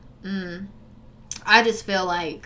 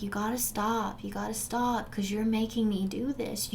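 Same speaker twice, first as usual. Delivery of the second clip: quoting abuser; 6 dB quieter than usual. Retold or imitated.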